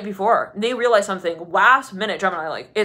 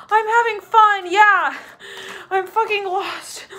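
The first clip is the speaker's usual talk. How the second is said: lost spirit; 11 semitones higher, 3 dB louder, slower than usual. Retold or imitated. Voicing lost spirit answering.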